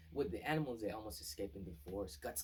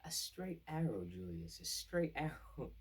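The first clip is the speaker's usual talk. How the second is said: higher, louder, slow and knowing with a laugh; knowing, teasing repeat, pitched up and slow; sly repeated hint; 8 semitones higher, 4 dB louder, slower than usual. Retold or imitated. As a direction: lean on it with a scheming chuckle.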